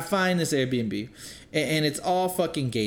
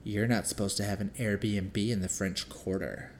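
put-on snobby old lady; 5 semitones lower, 5 dB quieter, slower than usual. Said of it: "she's like".

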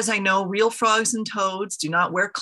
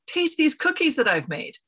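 excited; 8 semitones higher than usual. A narrator's reading. Eager Toad offers cookies.

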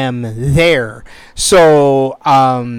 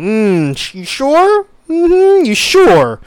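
skeptical. Retold or imitated. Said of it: "the old skeptical eye".

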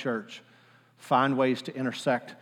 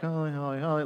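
flat, bored, barely-there holy; bored mumble; 7 dB quieter than usual. Retold or imitated. Mimicking a bored congregation, mumbled and lifeless. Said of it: "basic, boring".

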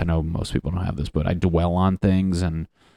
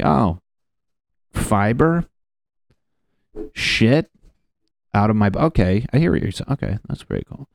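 mock surprise at the doctor; 3 semitones higher than usual. Mocking himself at the doctor.

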